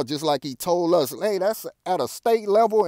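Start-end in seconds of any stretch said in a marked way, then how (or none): 1.2-2.9 high mocking quote of a dodge; mock Obama. Mocking Obama's state-level excuse, high and mocking. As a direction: sneer it out like a shrugging politician.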